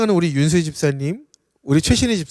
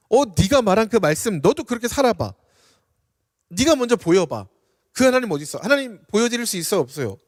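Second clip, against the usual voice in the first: scornful challenge; 3 semitones higher than usual. Retold or imitated. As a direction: challenge him with a hint of scorn. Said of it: "그것으로 멸시하고 천대하는 겁니다". (멸시하듯 따지는 가벼운 흉내)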